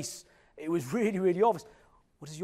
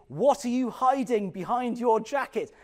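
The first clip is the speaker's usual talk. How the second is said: raised voice of a questioning head teacher; 5 semitones higher, 4 dB louder than usual. Retold or imitated. Head teacher to a six-year-old, sternly questioning. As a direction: confront a child, higher and louder. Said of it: "head teacher and she's saying".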